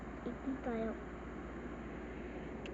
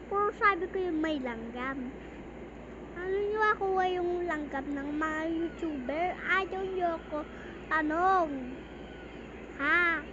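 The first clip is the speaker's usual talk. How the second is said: missing front teeth; 3 dB louder than usual. Real, not acted. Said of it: "Ba't bungi ako?".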